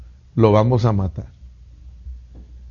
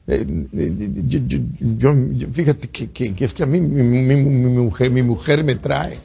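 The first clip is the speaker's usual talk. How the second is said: a scared man stuttering, voice dropping softer; stammering fear; 3 dB quieter than usual. Retold or imitated. A frightened churchgoer stammers to the soldier, nervous and halting. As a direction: fumble for an excuse, caught out.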